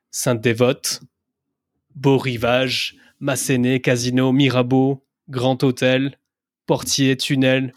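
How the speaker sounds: Monaco corners said the French way; French accent, a touch of showing off; French pronunciation. Shown as a demonstration. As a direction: roll out the corner names in native French. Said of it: "some people might be turned on by your French accent".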